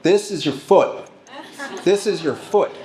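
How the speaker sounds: half-shouting it to wake the patient up; mock yelling. Healer slapping a patient's feet, mock yelling. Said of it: "start yelling at them".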